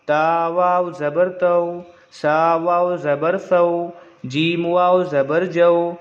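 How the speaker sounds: slow, level-toned letter-by-letter chant; spelling recitation. Shown as a demonstration. Teacher reading the tablet for pupils, slow even recitation. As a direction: intone each letter name evenly, then the joined syllable. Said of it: "चलिए पढ़ के हम लोग पढ़ लेते हैं".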